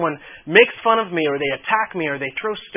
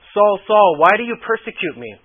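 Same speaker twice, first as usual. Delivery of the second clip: loud, higher calling out of Saul, Saul; voice from heaven; 4 semitones higher, 7 dB louder than usual. Acted. Jesus calling Saul from heaven, loud and high. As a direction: call down from heaven, louder and higher.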